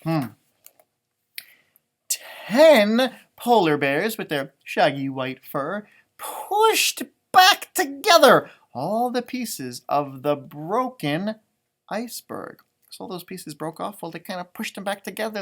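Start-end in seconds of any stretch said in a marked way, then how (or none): 2.1-12.6 rhythmic read-aloud refrain, drawn out; sing-song story reading. A narrator's reading. Parent reading the refrain to children, sing-song. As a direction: read it like a picture book chant.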